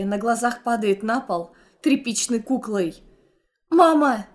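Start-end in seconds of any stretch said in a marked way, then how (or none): 3.7-4.3 loud, high desperate cry; screaming for mom. Acted. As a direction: call out to a collapsing mother. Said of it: "кричу".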